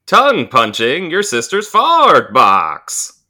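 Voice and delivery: swooping singer impression; mock-singer delivery with exaggerated pitch swoops; a singer. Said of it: "in the singer's voice".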